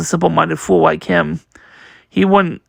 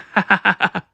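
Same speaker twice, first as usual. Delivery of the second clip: short staccato ha-ha burst; acted laughing fit. Luffy laughing at Karu, acted laughing fit. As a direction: let out a put-on laugh.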